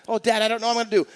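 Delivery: a lightly voiced child panicking to his father; panicky kid. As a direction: rush it like a worried child.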